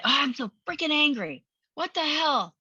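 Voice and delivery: mildly hammed-up fed-up outburst; acted angry outburst. Voicing an angry inner outburst.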